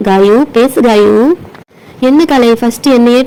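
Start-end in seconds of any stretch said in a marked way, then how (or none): 0.1-1.1 calling out. Acted. Blindfolded catcher calling out slowly.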